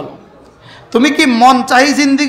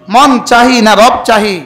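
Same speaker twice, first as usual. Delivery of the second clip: forceful preaching shout; 5 dB louder, slower than usual. Real, not acted. Preacher challenges the crowd.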